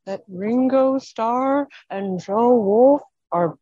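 lightly voiced ghost, slow and drawn out; a hint of a ghost knocking then announcing; spooky ghost voice. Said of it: "you're a ghost in a spooky voice".

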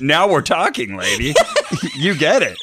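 loud, eager and laughing; mock excited. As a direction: cheer her on at last. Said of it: "I got all excited".

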